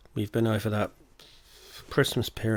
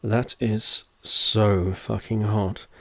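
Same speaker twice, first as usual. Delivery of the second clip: deadpan; much slower than usual. Acted. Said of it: "I deadpan".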